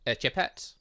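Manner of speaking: ordinary talk, nothing marked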